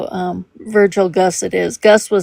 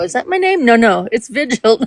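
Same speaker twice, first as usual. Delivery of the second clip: mock confusion; 3 semitones higher than usual. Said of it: "I look at it and go".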